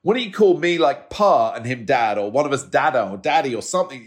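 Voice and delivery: high, exasperated plea; exasperated pleading. Retold or imitated. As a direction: plead with the boy, half laughing. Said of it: "we're always like".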